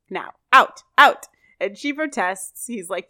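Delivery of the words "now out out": loud, rising shout of out, out; ordering her out at full volume. Acted. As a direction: throw her out with a yell. Corey throws Topanga out.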